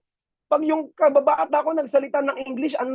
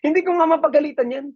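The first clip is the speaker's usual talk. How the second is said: helpless laugh; 5 semitones higher, 3 dB louder, faster than usual. Retold or imitated. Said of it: "Sabi niya".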